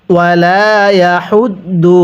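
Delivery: ইয়াহুদ্দু with air pushed out on the ha; breathy ha. Shown as a demonstration. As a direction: push breath through হা in ইয়াহুদ্দু. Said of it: "আরেকবার পড়ুন". (ইয়াহুদ্দু হা-তে বাতাস ছেড়ে)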